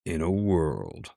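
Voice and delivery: slow epic trailer narrator; movie trailer voice. Pretend. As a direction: intone it like a blockbuster trailer. Mock movie trailer opener.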